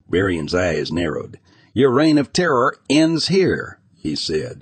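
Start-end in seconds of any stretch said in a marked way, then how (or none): 1.7-3.8 cold and firm. Acted. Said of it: "his voice cold and firm".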